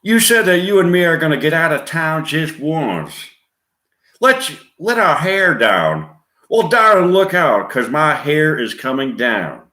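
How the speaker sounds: high, loud Southern belle; Gina Davis Southern accent. Acted. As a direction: gush in a high Southern twang. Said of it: "Gina Davis in a Southern accent".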